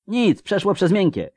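put-on very high girl's cry; slightly trembling shout. A narrator's reading. Wounded girl shouting back she's fine, slightly trembling. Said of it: "odkrzyknęła dziewczyna lekko tylko dygocącym głosem".

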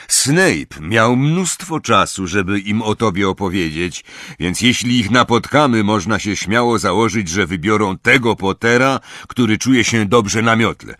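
brief the team firmly; a hint of a gruff commander; stern veteran leader. Moody briefs Harry.

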